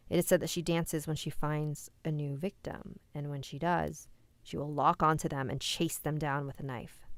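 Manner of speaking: even, measured storyteller read; urban legend narration. A narrator's reading. Streamer reading an urban legend to viewers, measured narration. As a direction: read out a creepy legend to an audience.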